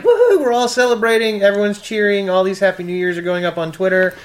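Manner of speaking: high, loud whooping party cheer; mock celebration. Panelist mimicking New Year's revelers on Twitter, high loud mock cheer.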